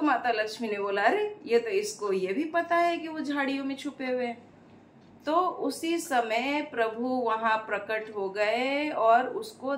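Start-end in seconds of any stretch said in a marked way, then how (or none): 1.0-4.5 astonished. Acted. Lakshmi amazed again.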